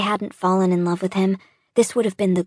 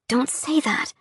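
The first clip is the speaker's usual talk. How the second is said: pleading; 5 semitones higher than usual. Acted. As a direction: gently forbid it. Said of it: "I tell him".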